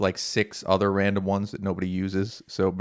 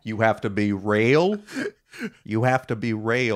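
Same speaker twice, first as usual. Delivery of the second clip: mock New Zealand accent. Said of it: "Are you doing a New Zealand accent?".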